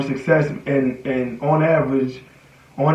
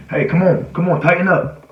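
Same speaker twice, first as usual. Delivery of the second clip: higher, urgent coach-style push; rallying yourself in the corner; self pep talk; 3 semitones higher, 3 dB louder than usual. Acted. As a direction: psych yourself up to lock in. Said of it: "when you get back into that corner, what's your word?".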